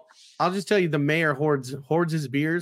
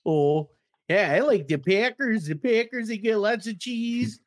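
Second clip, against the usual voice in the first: put-on Midwestern accent; 7 semitones higher than usual. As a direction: put on a hammed-up Midwestern Packers-fan accent. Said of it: "You're from the Midwest there".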